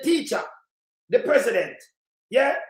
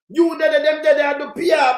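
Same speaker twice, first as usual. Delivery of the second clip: raised, louder protest; heated shout; 3 semitones higher, 5 dB louder than usual. Real, not acted. Host shouting at the audience about the dead. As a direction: hammer the point home to listeners.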